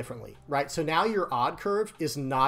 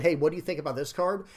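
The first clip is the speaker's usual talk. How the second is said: friendly ask. Shown as a demonstration. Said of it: "it would be better if people said".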